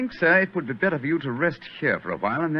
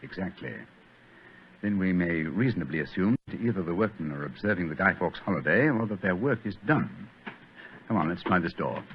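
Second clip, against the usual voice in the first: soft, low sneaking voice; hushed whisper; 3 semitones lower, 6 dB quieter than usual. Acted. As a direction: whisper so nobody hears. Sneaking through dark cellar.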